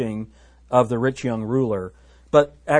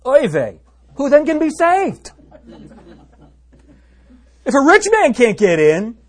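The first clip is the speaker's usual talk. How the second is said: playful mock Jewish accent, pitched much higher and louder; 12 semitones higher, 10 dB louder than usual. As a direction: ham up a Yiddish-flavoured Jewish accent in a higher voice. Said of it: "you gotta say this in your Jewish accent".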